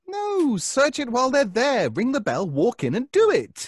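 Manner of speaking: high, pushing insistence; insistent. Acted. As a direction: urge him to just go in. Urging search of neighbors' apartment.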